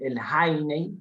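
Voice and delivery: Heine said the German way, HAI-ne; German pronunciation. Shown as a demonstration. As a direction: say Heine like its German owner would. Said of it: "se pronuncia el Heine como lo pronuncia el dueño".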